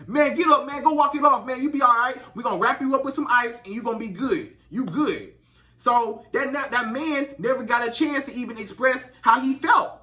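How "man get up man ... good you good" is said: playing a gruff coach telling him to walk it off; dismissive coach. Coach to injured teen player: mock tough-love urging. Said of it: "What his coach say?".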